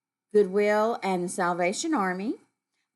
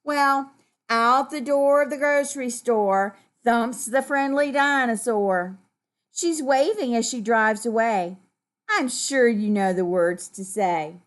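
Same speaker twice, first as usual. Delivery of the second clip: story reading; 4 dB louder than usual. A narrator's reading. Reads story to children.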